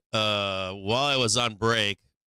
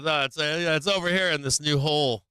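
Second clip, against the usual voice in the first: voicing the wife; 6 semitones higher than usual. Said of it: "So my wife's like".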